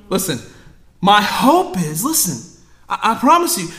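ordinary talk

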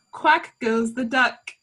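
slow, operatic mock of a singer. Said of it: "In her singer voice".

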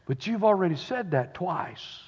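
soft, hushed aside; retold whisper. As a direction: quietly correct the old preacher. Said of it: "the helper whispered to him".

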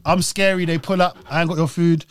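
loud, firm gangster lines; acted villain. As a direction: lightly play the scary villain, in short bursts. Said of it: "my storyline is".

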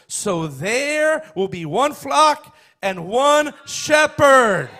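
slow, loud, drawn-out proclamation; preaching climax. Acted. Preacher closing the shepherd verse for the congregation, drawn-out proclamation. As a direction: stretch each phrase out and land it big.

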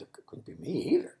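fast nervous whisper; quick whispered denial. Acted. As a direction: hurry the whisper out.

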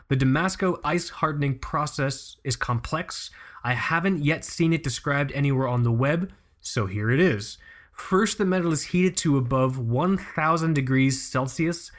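measured read-out of a technical quote; reading aloud. Real, not acted. Host reading a forum member's explanation to co-host, measured. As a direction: recite it evenly, phrase by phrase.

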